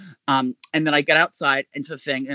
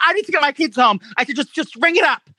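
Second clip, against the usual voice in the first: harried fake mom; 9 semitones higher than usual. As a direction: wrap up the deal for the kids. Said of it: "I'm still in the character".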